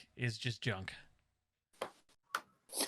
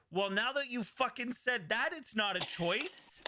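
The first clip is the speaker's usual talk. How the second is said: exasperated; 9 semitones higher than usual. Retold or imitated. Retold Jon reacting to Bran.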